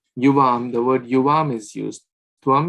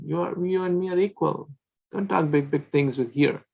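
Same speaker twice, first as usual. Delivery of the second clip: raised-pitch mock boasting, playful; teasing cowherd friends; 4 semitones higher than usual. Cowherd boys teasing Krishna as equals, playful. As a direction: tease him like a cheeky childhood pal. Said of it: "They talk like that, like joking".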